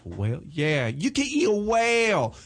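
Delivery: slow, drawn-out Korean-accented punchline; Korean accent impression. Shown as a demonstration. Doing Doctor Kim for the hosts, slow Korean accent. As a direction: lightly mimic a Korean acupuncturist's accent. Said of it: "That's what he sounds like in my head".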